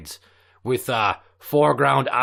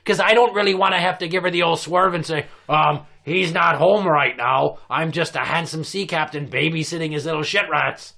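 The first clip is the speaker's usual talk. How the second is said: ranting pirate captain; 4 semitones higher than usual. Acted. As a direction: rant like an outraged old captain. Continues captain rant.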